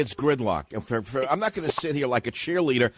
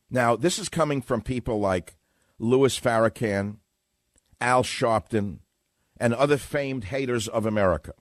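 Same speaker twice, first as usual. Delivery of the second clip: formal reading. Acted. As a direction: read it like an op-ed. Reads his book passage.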